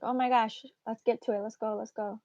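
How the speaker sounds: a touch of giddy impatience; impatient excited kid. Acted. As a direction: lightly act a kid impatient on Christmas morning. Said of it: "a little kid on Christmas morning".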